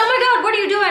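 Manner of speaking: high, loud alarmed retold cry; startled retold outburst; shocked outcry. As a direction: recoil in shock as the hair steams. Startled by steaming flat iron.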